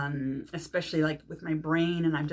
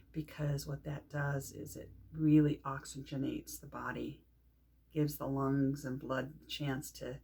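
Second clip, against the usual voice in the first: calm, measured breathing instruction; guided meditation. Shown as a demonstration. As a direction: ease them into the breath, pausing between phrases. Leads breathing exercise.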